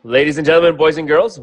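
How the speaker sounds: ringmaster-style welcome; grand entrance announcement. Acted. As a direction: announce it like a showman. Host opening the session.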